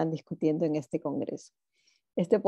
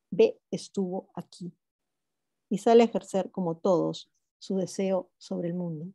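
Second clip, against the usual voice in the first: poetry reading. Acted. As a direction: read the poem aloud to an audience. Reads poem fragment aloud. (lectura de poema en voz alta)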